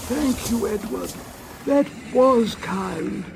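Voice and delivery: high, pleased coach voices, slow on that was kind; grateful coaches. A narrator's reading. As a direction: thank him sweetly as a happy coach. Coaches thank Edward.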